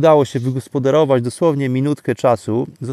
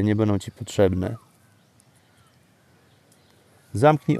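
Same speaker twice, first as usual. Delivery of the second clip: guided meditation. Acted. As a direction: calmly lead them into stillness.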